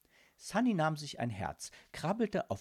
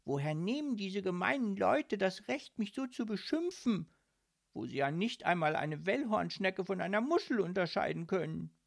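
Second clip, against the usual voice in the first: higher, mildly whiny mussel voice; whining sadly; 5 semitones higher than usual. Acted. Little mussel lamenting her insulting name, a touch whiny. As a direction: complain with hurt feelings. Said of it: "jammerte Sunny traurig".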